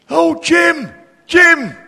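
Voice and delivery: high, loud call across the road; shouting a name. Retold or imitated. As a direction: call out to a neighbour. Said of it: "put his hand up and he shouted".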